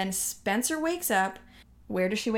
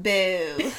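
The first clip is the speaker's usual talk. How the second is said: British boo; 2 semitones lower, 3 dB louder than usual. Retold or imitated. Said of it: "how she said boo".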